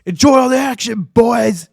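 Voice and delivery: a clumsy stab at a Scottish accent, belted out; over-the-top Scottish accent greeting fans; bad Scottish accent. Shown as a demonstration. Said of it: "really bad impression of a, uh, Scottish accent".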